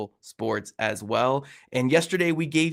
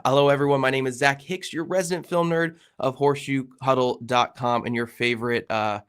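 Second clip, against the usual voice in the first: stuffy nose from a cold; nasal sick voice. Real, not acted. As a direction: talk through a blocked nose. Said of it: "my nasally voice".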